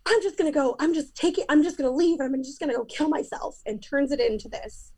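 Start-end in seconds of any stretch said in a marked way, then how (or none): 0.1-3.6 whiny threat. Retold or imitated. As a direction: mimic his self-pitying threat, voice pitched up. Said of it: "And he goes".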